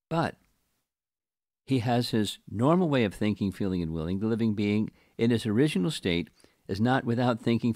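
deliberate scripture commentary reading. Acted. Teacher reading the purport to patient listeners, deliberate reading. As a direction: read it out, pausing after each phrase.

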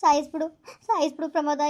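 loud anguished outburst; despairing cry. Acted. Jilted girlfriend crying out to Pramod, loud and desperate. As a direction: hurl it at him in despair.

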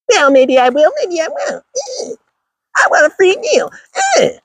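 high, whiny mock woman; a sneering impression up high. Mocking a woman who wants a free meal, high and whiny.

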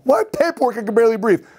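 high-pitched, exasperated disbelief; incredulous protest. Retold or imitated. Patient balking at ER paperwork, retold incredulous protest. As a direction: protest in a high, acted panic.

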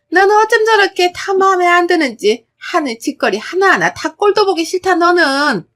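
mother-in-law raging at defiant daughter-in-law; furious tirade. Acted. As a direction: pour out disgust at her.

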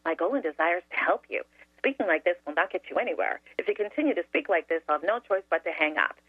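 rehearsed sugary politeness; syrupy sweet. Retold or imitated. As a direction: recite the script sweetly and politely. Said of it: "the most syrupy, sweet voice".

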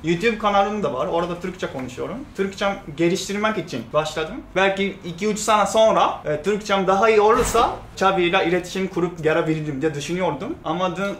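Japanese accent in Turkish; careful learner's Turkish, Japanese accent; foreigner broken turkish. Real, not acted. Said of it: "Türkçem kötü".

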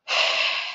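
soft breathy sigh. A narrator's reading. Hurt daughter confiding in her fiancé, quiet sigh. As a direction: let out a quiet, heavy sigh. Narrator sighs amid sad confession.

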